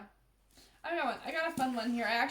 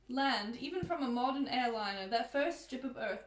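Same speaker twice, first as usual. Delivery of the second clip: attempted British accent that slips into Australian; wobbly British-Australian book reading; British accent turning Australian. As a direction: aim for British, land nearer Australian. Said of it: "I feel like I sound more Australian".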